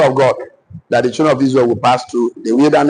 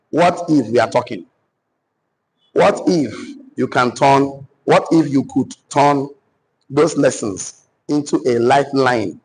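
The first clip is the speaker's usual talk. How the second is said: dictation; slower than usual. Acted. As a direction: dictate a question in short pieces. Dictates a question to the audience.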